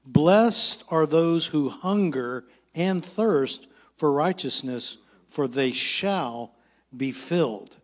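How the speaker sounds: slow, weighted verse reading; measured pulpit reading with stretched key words; scripture reading. Acted. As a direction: read the verse out slowly, phrase by phrase. Reads a Bible verse aloud.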